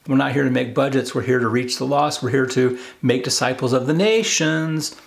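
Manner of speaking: ordinary delivery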